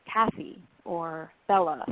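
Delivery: slow, with Kathy and Bella each hit on the first syllable; stress on first syllable. Shown as a demonstration. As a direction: stress KA-thy and BEL-la, slowly. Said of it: "with the stress on the first syllable".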